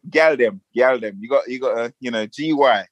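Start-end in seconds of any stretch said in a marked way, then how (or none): 0.1-1.2 put-on "gal dem" with "gal" in place of "girl"; corrected slang pronunciation. Shown as a demonstration. Correcting an older speaker who said girl dem, demonstrated pronunciation. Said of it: "it's known as".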